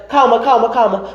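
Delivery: high, repeated acted hushing; flustered calming. Calming a crying grandmother in the retelling, flustered. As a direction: play flustered, pleading for calm.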